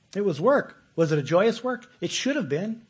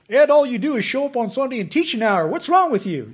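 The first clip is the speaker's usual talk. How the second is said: louder, higher scoffing critic; mock critic; 10 semitones higher, 10 dB louder than usual. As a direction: scoff at the preacher as a doubter would. Mocking a critic's complaint.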